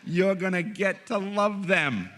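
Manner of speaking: high, loud, slow mock rejoicing; hammed-up glee. Director telling someone to love the sandwich thief, exaggerated delight. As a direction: draw it out like a thrilling privilege.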